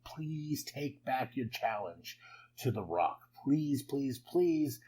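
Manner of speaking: drawn-out begging, rising toward the end; mock pleading. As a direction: imitate someone begging, stretching the pleases. Paul begging Cody, retold.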